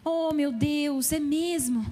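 very slow, drawn-out fake sympathy; mock pity. Pastor mocking churchgoers who only pity children, slow fake sympathy. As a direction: mimic shallow, empty pity. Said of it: "tem gente que fica assim".

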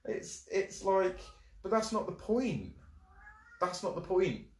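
high and loud, slow heated rant; worked up. Real, not acted. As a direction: insist hard, getting worked up. Heated denial about moon water.

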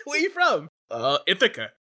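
mock Brooklyn exchange.

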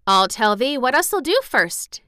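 put-on eager girl in careful broad Yorkshire; girl's Yorkshire. A narrator's reading. Mary planning with Dickon, eager Yorkshire. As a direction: twist the tongue into Yorkshire. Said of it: "tried to twist her tongue into speaking Yorkshire".

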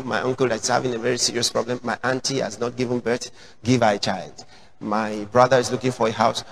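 low, quick rattled-off prayer; mock shopping-list prayer. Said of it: "You kneel down and say".

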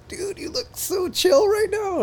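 slow, high, spaced-out friend voice; dreamy stoner drawl, drawn out; stoned drawl. Retold or imitated. Friends at the park telling him he looks chill, slow dreamy drawl. Friends comment while he's tripping.

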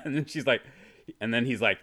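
ordinary delivery

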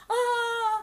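high mock laugh, one drawn "ah"; put-on high laugh; imitated laughter. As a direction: mimic the shared laughing fit. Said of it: "kita lagi ketawa-ketawa kan".

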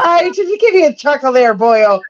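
a light Irish brogue; Irish accent. Acted. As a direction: ask it like an Irishman teasing. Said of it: "your Ireland accent".

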